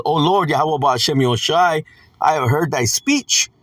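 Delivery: slow, measured scripture reading. Acted. Preacher reading Habakkuk's prayer to listeners, slow scripture reading. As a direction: read the verse out slowly and deliberately.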